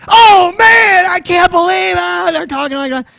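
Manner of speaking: high, loud mock whine of disbelief; incredulous buddies. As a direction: squeal like an amazed college buddy. Buddies voiced, mocking disbelief.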